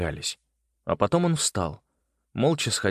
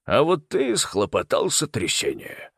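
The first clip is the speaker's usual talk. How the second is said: lightly voiced uncle, calm; 4 semitones higher, slower than usual. A narrator's reading. Uncle Malcolm voice.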